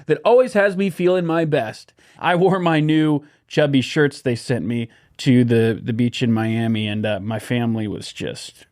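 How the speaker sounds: cheery podcast ad voice; ad read. Acted. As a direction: sell it like a radio spot. Host reads sponsor ad.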